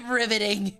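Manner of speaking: dry, deadpan mock praise; sarcastic. Real, not acted. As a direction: say it with heavy sarcasm. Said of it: "Absolutely riveting".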